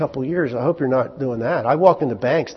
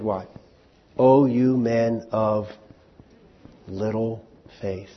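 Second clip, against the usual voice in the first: gentle rebuke; slower than usual. Acted. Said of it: "He said".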